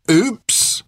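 high, rising taunting oops; mock innocence. A narrator's reading. Soldier kicking her down on purpose, mock-innocent. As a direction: feign an accident, pitch leaping up. Soldier repeats his mocking kick.

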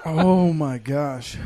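slow teary groan; tearing up from the heat; crying. Real, not acted. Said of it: "Are you crying?".

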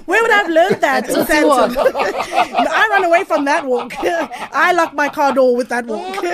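talking through loud laughter; laughing. Real, not acted. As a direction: laugh while you answer. Laughing at host's question.

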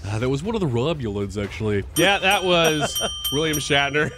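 lightly voiced know-it-all fan; nerdy Trekkie voice. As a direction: correct them like a pedantic nerd. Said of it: "Is that your nerdy Trekkie voice?".

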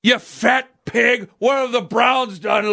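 lightly voiced raging fan hurling insults; angry fan. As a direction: fan firing insults at a Boston radio host, mock angry. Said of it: "immediately Patriots fans get in".

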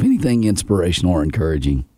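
hoarse voice breaking on words; cracking voice. Real, not acted. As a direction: voice cracking like puberty. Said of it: "You sound like you're going through puberty".

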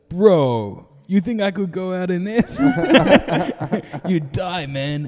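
laughing through the driver's line; laughing quote. Retold or imitated. Retelling the Uber driver's boast, laughing. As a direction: quote him while cracking up.

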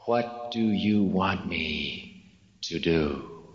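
humble, sincere question, plainly asked; sincere and simple. Retold or imitated. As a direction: ask it simply, meaning every word. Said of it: "In a voice that everyone knew was sincere, he said simply".

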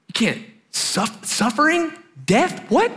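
high, halting questions; stunned disbelief. Retold or imitated. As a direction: stammer it out as if unable to take it in. Disciples stunned by the news.

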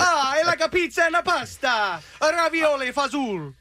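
put-on hammy Italian accent; broad stereotyped Italian accent. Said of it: "It's not at all racist".

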